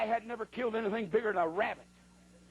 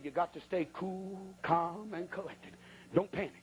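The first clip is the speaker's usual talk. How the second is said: low, softer self-talk, a touch of cool; steady yourself, voice low and even; retold calm; 4 semitones lower, 4 dB quieter than usual. Hunter telling himself not to panic, mock calm. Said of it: "I was calm".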